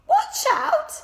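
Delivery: sharp high startled squeak. A narrator's reading. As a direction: yelp at the sudden bang. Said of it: "I squeaked".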